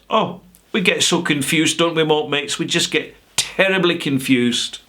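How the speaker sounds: lightly hammed-up bewildered customer; mock helplessness. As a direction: play at being hopelessly muddled, pitched a little up. Mock-pleading as supposedly confused customers.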